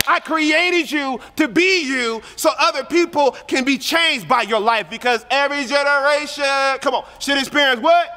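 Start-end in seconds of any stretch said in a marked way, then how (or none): 0.1-4.9 God's voice, higher and slow; a lifted, slow voice of God; voicing God. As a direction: speak as God, lifted and deliberate. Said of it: "God's saying".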